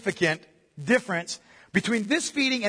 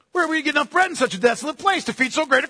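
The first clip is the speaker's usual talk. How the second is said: alarmed disciples; 6 semitones higher, faster than usual. Acted. Preacher voices the disciples' alarmed question.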